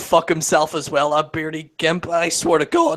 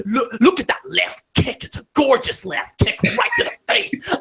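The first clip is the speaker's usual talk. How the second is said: mock commentator; 5 semitones higher than usual. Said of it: "Instead of this whole".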